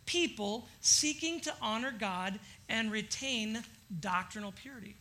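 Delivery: reads the commentary line slowly and deliberately; unhurried, weighty reading of a quote; slow quoted reading. Acted. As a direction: lean on each phrase of the quote, slow.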